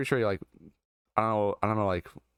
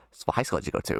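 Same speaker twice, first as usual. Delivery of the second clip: lower, lightly voiced questioner; imitated odd stranger; 4 semitones lower, faster than usual. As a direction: imitate the odd guy probing further. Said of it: "kinda, like, in that voice".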